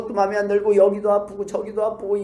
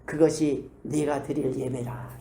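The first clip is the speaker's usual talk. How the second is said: mock voice of God; 7 semitones lower, 4 dB quieter, slower than usual. God's reply voiced in sermon.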